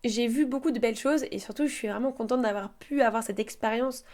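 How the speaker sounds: calm, even travelogue read; voiceover narration. Acted.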